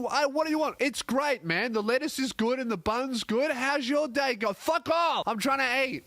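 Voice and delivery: high-pitched, exasperated diner; exasperated rant. Acted. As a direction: blow up at an interrupting waiter. Acted outburst at a waiter.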